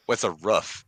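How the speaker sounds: "roof" said short, like a dog's "ruff"; puzzled echo of "roof" with the short vowel of "rough". Retold or imitated. Student baffled by teacher's word, echoing "roof" as "ruff". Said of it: "a sound a dog would make".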